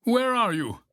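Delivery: high, worried call; high-pitched anxious question; Toad searching. A narrator's reading. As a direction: call into the dark for a missing friend. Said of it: "said Toad".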